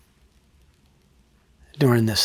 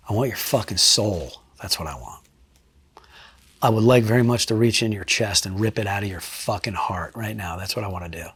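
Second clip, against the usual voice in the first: low, much softer, cold threat; quiet menace; 4 semitones lower, 4 dB quieter than usual. Retold or imitated. Threatening the suspect in retelling.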